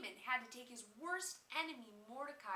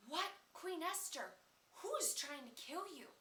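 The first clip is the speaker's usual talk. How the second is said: surprised king; 6 semitones higher than usual. Acted. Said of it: "the king was totally surprised".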